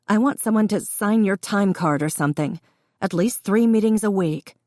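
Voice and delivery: lightly voiced daughter laying down terms; firm daughter. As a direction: warn your father, firm and insistent.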